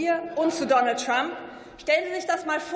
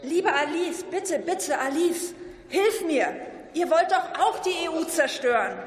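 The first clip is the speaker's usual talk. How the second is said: mock whiny plea, slightly raised; whiny Elon Musk; 3 semitones higher than usual. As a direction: whimper it like a begging child. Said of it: "mit weinerlicher Stimme und sagt".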